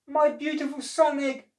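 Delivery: high, loud wail of mock sobbing; a hammed-up sob over the lost egg; sobbed. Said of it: "sobbed the elf".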